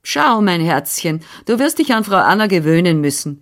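stern. Acted. Nurse telling the girl she must get used to her, mildly stern. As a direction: set the rules gently but firmly. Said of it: "sagte sie streng".

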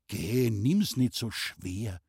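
slow, gentle consoling; comforting. Acted. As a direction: soothe her slowly. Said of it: "tröstete der Maler".

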